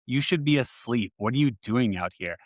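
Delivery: a mild retold scold, a touch sharper; imitating catching her out of bed; stern scolding tone. Dad catching his daughter up late, mildly scolding. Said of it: "I probably said it in that type of tone".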